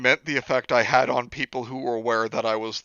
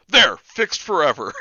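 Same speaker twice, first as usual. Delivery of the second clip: a hint of cartoon declaration, slower and higher; quoting a cartoon; 4 semitones higher, 6 dB louder than usual. Mocking the writer's quick fix, light cartoon quote. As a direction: lightly imitate a cartoon line, drawn out. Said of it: "just thinking Futurama".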